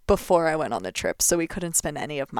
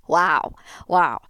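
"Wow" loud and amazed, said twice; stunned by the memory, let out a loud wow; 6 dB louder than usual. Real, not acted. Reacting to the old recording.

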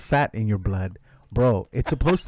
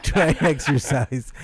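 laughing; slower than usual. Real, not acted. Repeating pun while laughing.

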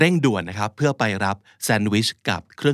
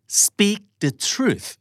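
"Speak" much higher, slow; emphatic drill; 9 semitones higher, much slower than usual. Shown as a demonstration. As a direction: lift "Speak" high and hold it. (ยก "Speak" ให้สูง อ่านช้าๆ)

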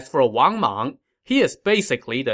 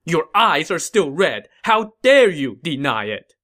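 louder, raised angry accusation; raging; 4 semitones higher, 4 dB louder than usual. Acted. Sima Shi pressing the officials, raging accusation. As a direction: hammer them with the proof. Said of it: "Sima Shi raged on".

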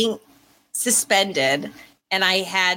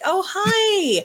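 surprised greeting; 13 semitones higher than usual. Retold or imitated. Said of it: "I'm like".

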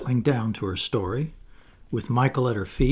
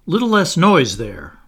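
loud, higher call for order; 5 semitones higher, 9 dB louder than usual. A narrator's reading. Peter to the noisy children, calling out. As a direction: call across the noisy room. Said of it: "Peter called out".

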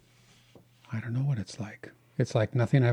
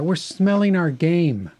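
sheepish reply; 5 semitones higher, 3 dB louder, slower than usual. Retold or imitated. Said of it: "my wife's gonna say".

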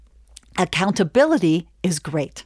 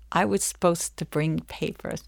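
softer, sinking realization; sheepish realization; 2 semitones lower, 5 dB quieter than usual. Acted. Client realizes the papers are missing, sheepish. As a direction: let it dawn on you quietly.

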